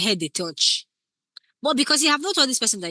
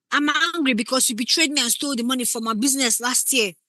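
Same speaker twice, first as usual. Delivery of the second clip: on the nose; 4 semitones higher than usual. Shown as a demonstration. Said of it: "are you doing public service announcement".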